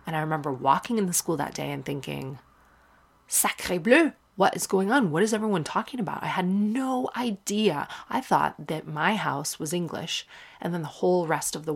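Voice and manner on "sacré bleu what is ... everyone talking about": put-on bewildered child. Child's bewildered thoughts in French school.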